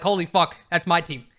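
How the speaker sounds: proud, amazed exclamation about the team; thrilled pride. Shown as a demonstration. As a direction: say it like you love watching your team. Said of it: "it's a totally different vibe".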